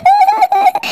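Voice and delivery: high, giddy laugh; joyful laugh. Acted. Mother laughing at finding her lost son, high and joyful. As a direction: laugh with happy relief.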